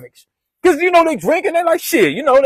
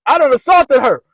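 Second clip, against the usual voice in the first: mock panic; 3 semitones higher, 4 dB louder than usual. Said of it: "but I'm like".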